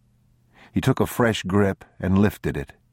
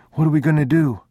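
put-on high, louder child's voice; small boy; 10 semitones higher, 5 dB louder, much faster than usual. A narrator's reading. Boy asking his father about the stranger, high child voice. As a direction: press Papa for an answer.

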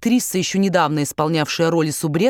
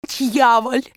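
put-on high accented curse; exclaim; 5 semitones higher than usual. A narrator's reading. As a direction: spit out the curse in German accent. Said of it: "вскричал барон". (вскрик с акцентом)

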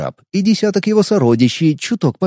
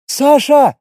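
high, raised call; urgent calling out; 11 semitones higher, 4 dB louder than usual. A narrator's reading. Scout Таня hails leader while running up, urgent call. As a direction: call the name across a distance.

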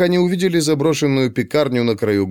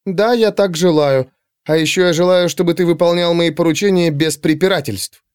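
higher-pitched mistress laying down orders; imperious; 4 semitones higher than usual. Acted. Mistress answering her mocking servant, imperious. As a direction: give orders as the one in charge.

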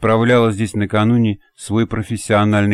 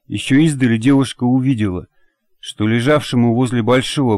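ordinary delivery, nothing marked

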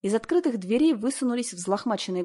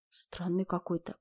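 мысли про себя; 8 dB quieter, slower than usual. A narrator's reading. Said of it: "подумала я".

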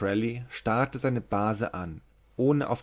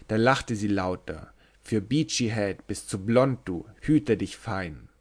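monotone recital. Acted. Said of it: "rezitierte er eintönig".

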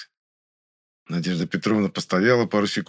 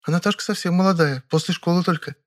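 raised female voice, eager and gossipy; a young woman sharing news; girlish, chatty Vera; Vera chatting; 10 semitones higher than usual. A narrator's reading. Vera's voice.

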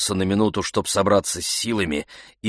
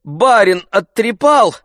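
uneasy jibe; 14 semitones higher, 8 dB louder, slower than usual. A narrator's reading. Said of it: "несколько струсив".

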